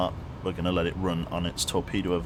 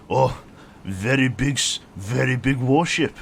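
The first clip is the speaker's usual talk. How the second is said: lightly done bad Chinese accent, a bit higher and louder; mock Chinese accent; 6 semitones higher, 7 dB louder than usual. Streamer voicing the fooled sonar, mock Chinese accent. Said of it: "like, Chinese accent".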